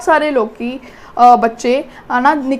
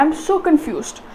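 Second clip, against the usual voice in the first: softer, slow, stress on SO; confused emphasis; 5 dB quieter, much slower than usual. Shown as a demonstration. Teacher matching expression to the words, stress on so. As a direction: lean on so, let confused drop away softly. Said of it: "ਹਾਵ ਭਾਵ ਹੈ ਉਹ ਵੀ".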